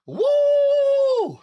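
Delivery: high, loud triumphant woo; loud cheer. Real, not acted. Streamer cheering after finishing reps, loud. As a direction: shout it out in victory.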